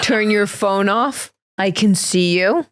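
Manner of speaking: slow, stern warning to an audience member; host scolding a woman on her phone, slowly; slow stern comic warning. Pretend. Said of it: "comedian acting the heckle".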